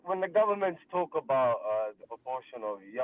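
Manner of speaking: boxed-in, far from the mic; muffled like talking inside a box; sounds in a box. Real, not acted. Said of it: "you sound like you're in a box".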